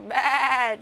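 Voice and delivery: bleating goat-like moo; mad moo. Pretend. Streamer doing an angry cow moo, bleating. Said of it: "that's a goat, bro".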